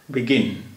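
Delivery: बिगिन with the second syllable गिन leaned on; stress on second syllable. Shown as a demonstration. Teacher showing students how बिगिन is said, second syllable stressed. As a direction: say बिगिन, landing firmly on गिन. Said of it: "आई के नीचे ये छोटी सी लकीर है".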